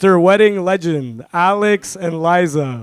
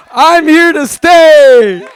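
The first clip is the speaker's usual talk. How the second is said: laughing; 6 semitones higher, 7 dB louder, much slower than usual. Real, not acted. Laughs while declaring it.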